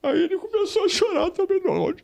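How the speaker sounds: high, strained voice fighting back tears; real tears catching in the throat; choking up. Real, not acted. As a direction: hold back crying while speaking. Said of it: "Eu vou chorar aqui".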